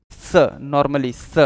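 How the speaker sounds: drawn-out स, tongue at the teeth; slow, held hiss on dental स. Shown as a demonstration. Teacher showing the normal sound, स slowly at the teeth. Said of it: "स बोलते समय जीभ दांतों से टकराती है".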